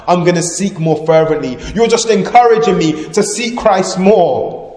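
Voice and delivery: defiant resolve, climbing in pitch; voice rising. Acted. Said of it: "I'm gonna raise my voice higher".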